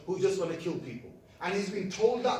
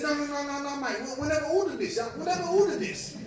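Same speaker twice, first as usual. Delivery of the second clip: retold protest; 8 semitones higher, 3 dB louder than usual. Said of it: "they said".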